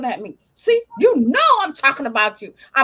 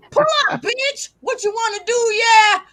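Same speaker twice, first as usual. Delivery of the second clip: mock tough challenge; 4 semitones higher than usual. Owner to her dog Sassy, mock fight challenge.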